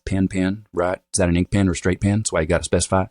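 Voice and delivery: light Southern accent, "pen" said as "pin"; casual rhotic Southern demo; Southern pin-pen merger. Shown as a demonstration. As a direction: demonstrate Southern merged vowels. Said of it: "the pin-pen merger, which is now universal in the South".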